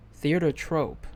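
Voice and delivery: "trope" said with a long o; pronounced as trope. Shown as a demonstration. Reader testing how theater troupe is said, "trope" with long o. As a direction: say "trope" to rhyme with rope. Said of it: "I think that's trope".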